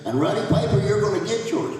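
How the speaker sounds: high, loud challenge aimed at a rival; a pop singer. Retold or imitated. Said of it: "last thing she said is".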